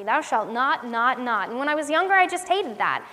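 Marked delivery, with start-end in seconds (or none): 0.0-1.5 "not" repeated as a finger-wagging prohibition; scolding list, every "not" leaned on; stress on NOT. Retold or imitated. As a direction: hammer each "not" separately. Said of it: "wag his finger at me".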